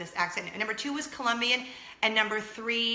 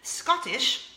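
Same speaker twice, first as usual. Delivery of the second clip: higher-pitched, rough stab at a Scottish accent; 4 semitones higher than usual. Shown as a demonstration. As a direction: attempt a Scottish accent, badly. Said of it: "which I can't really do".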